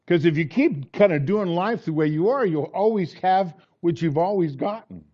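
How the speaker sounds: preaching. Real, not acted. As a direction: drive each point home to the congregation. Preacher exhorts the congregation.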